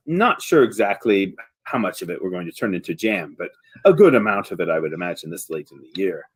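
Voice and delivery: low, lightly voiced farmer; understated, thankful villager musing on the harvest; Buckran the farmer. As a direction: settle into a low, easy register. Game master plays Buckran.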